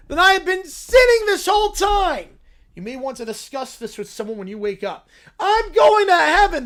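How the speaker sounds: high, loud, triumphant cub; little bear vowing loudly; excited bear shout. Acted. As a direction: yell it like a sudden revelation.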